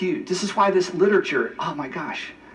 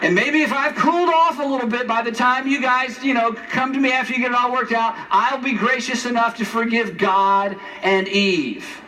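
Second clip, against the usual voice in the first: higher, mock indignant rant with laughs; mock indignant Adam; 4 semitones higher than usual. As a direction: play a petulant Adam lecturing God. Mock Adam scolding God.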